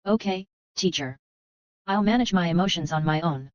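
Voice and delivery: stuffy, nasal and teary. Acted. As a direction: speak through a nasal, choked-up voice. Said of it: "With a nasal voice".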